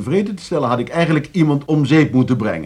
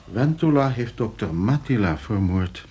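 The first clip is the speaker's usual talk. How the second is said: slow, low stunned report; shocked; 3 semitones lower, 4 dB quieter, slower than usual. Acted. Host tells guests of the real murder, stunned. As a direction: let the shock sink in slowly. Shocked news after phone call.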